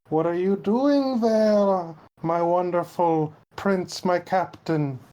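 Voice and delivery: slow, drawn-out pining; lightly voiced yearning admirer; mild lovelorn lookout. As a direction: linger dreamily over the words. Lookout voices longing for captain.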